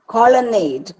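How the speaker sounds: "colonnade" with the weight on nade; two light syllables, then stressed nade in "colonnade"; stress on last syllable. Shown as a demonstration. Teacher giving an anapaest example, "colonnade" stressed on nade. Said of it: "nade is stressed".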